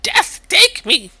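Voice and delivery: high, loud, slow theatrical wail; melodramatic despair. Acted. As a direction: ham up a tragic death wish.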